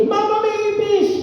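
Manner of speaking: mataas na tinig ng batang takot, tumatawag kay mama; batang sumisigaw sa ipis. Retold or imitated. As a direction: gayahin ang apong nagulat sa ipis. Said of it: "tatawagin pag naliligo". (mataas at gulat na sigaw ng bata)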